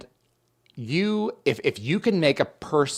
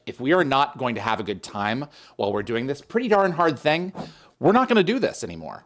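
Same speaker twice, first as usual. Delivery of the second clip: mantra rising to a peak; 3 semitones higher, faster than usual. Retold or imitated. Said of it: "It's like".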